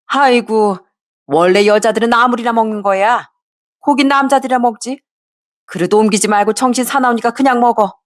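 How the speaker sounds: a hint of a sharp mother-in-law brushing off her son.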